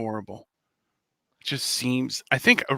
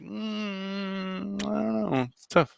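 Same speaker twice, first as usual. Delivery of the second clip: mock wife voice; 7 semitones higher, 5 dB quieter, much slower than usual. Acted wife's hesitant reply.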